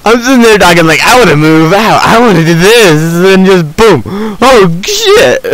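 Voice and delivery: high, loud replay of the scare; worked-up retelling. Retold or imitated. Gamer replaying the spider ambush for viewers, worked-up retelling.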